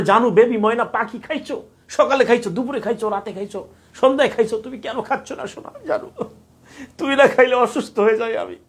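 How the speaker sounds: high, cooing lovey-dovey voice; doting girlfriend voice. Retold or imitated. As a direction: coo like a clingy sweetheart.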